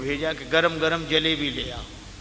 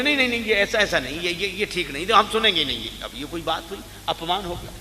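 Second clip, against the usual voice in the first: mock protest; 2 semitones higher, faster than usual. Mocking rude listeners' objection.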